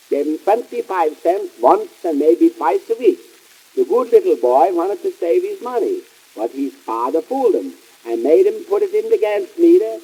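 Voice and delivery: put-on lightly sweetened storyteller read to children; mock bedtime story. Radio host telling the little children a bedtime story. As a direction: spin a nonsense tale like a kindly uncle.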